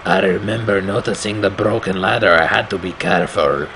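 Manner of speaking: put-on lightly accented storyteller voice; narrator in a put-on accent. Player voicing the game's hero, light put-on accent. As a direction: read the game narration in the hero's accent. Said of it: "that's the accent I want him to speak in".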